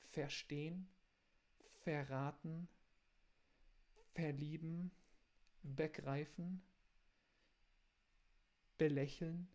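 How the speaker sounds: verstehen, verraten, verlieben, begreifen, belächeln with small breaks inside; glottal stop demo. Shown as a demonstration. Teacher models glottal pauses for students. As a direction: mark the little pause in each word. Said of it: "pausa glottidale".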